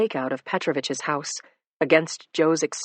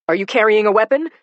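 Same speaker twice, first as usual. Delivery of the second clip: loud question; 5 semitones higher, 8 dB louder than usual. Acted. Cop questions suspect.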